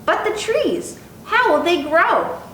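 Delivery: mother's question rising high. Acted. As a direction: pitch up as the worried mother.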